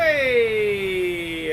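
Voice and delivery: loud, high cry as the ride kicks off; yelp of surprise. Real, not acted. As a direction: let out a startled shout. Ride launches, cries out.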